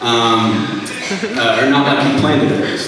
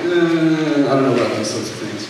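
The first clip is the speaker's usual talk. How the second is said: reluctant hedging; 3 semitones higher than usual. Retold or imitated. Student backing away from giving a testimony, hesitant. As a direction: hem and haw, imitating reluctance. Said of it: "normally I'm like".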